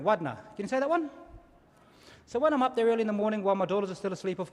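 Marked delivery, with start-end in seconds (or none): 0.0-0.4 wadna said clearly, WAD-na, stress on WAD; wadna, a broad a; Kaurna word. Shown as a demonstration. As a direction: teach wadna slowly to the crowd. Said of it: "In Kaurna language, we call that boomerang".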